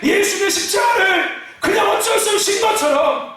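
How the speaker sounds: shouted, high preaching cry; full-force preaching. Acted. Pastor shouting to the congregation, full-force preaching. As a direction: preach it out at the top of your voice.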